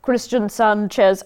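slow, tentative German accent; attempted German accent. Shown as a demonstration. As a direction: try the name in a light German accent. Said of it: "I was trying to do German accent".

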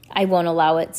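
ordinary delivery

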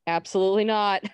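high, loud mock refusal; instantly over it. Charming refusing before he's asked, instantly over it. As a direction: shut it down emphatically, voicing someone fed up. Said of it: "immediately over it".

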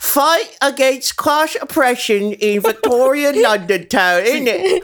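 put-on baby British voice. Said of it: "I'm the baby British one".

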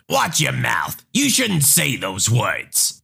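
slow, lightly voiced scolding mom; a hint of an indignant mother; offended mother. Mother scolding the teen for laughing at her daughter, slow.

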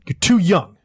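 breaking into a whisper at the end; strained whisper. Acted. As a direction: let the voice give out. West's plea breaks to whisper.

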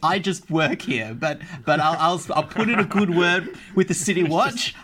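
hedging, nervous minor-employee character; put-on voice of an anxious underling; flustered elf worker. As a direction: stammer out a cautious offer. Elf bargains as laughing players listen.

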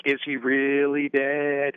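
slow, drawn-out question. Retold or imitated. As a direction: stretch every word out slowly. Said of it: "It's sort of drawn out".

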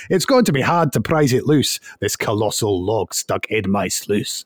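hammed-up Scottish accent reciting a poem. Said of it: "I've gotta do it in the Scottish accent".

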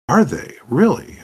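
high, loud exaggerated amazement; mock surprise. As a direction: play up your astonishment. GM reacts to rich goblins.

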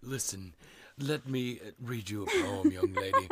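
hammed-up pompous poet voice; mock-grand old poet; Edgar Allan Poe. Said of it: "I'm Edgar Allan Poe".

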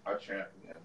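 talking while eating; mouth full. Real, not acted. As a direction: speak through a mouthful. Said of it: "Why you sound so far".

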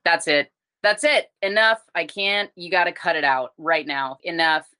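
mildly exasperated parent putting a foot down; retold telling-off, firm and emphatic; fed-up scolding. Retold scolding of her son.

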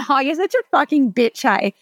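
light, teasing banter with a smile; playful friendly insult. Retold or imitated. Chatting to a friend on the phone, teasing. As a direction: rib your friend on the phone. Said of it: "you both end up laughing".

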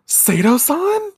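high, slow astonished call; surprised gasp. Retold or imitated. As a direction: gasp the name in disbelief. Voices Minako surprised.

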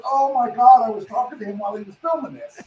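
excited gasp. Retold or imitated. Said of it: "I'm like".

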